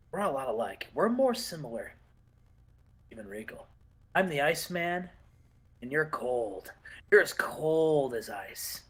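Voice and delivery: a hint of a brooding wrestler cutting a low-key promo; Dean Malenko promo. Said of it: "And Dean's like".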